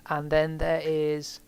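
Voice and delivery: slow, mid-yawn. Real, not acted. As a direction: talk through a yawn. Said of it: "I don't know why I'm yawning so much".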